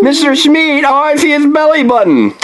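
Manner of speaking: high, delighted reveal; excited. Real, not acted. Surprise figure found.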